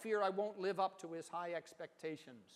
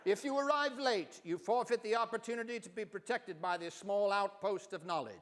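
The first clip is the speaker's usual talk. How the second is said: put-on light English accent, raised and a little louder; half English accent; 3 semitones higher, 3 dB louder than usual. Narrator quoting the professor in a half English accent. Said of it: "speaks with a half English accent, sort of like David Niven".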